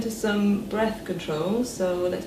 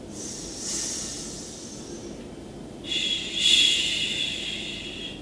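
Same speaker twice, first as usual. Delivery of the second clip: accented fricatives; 4 dB quieter, much slower than usual. Shown as a demonstration. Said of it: "So it sounds like".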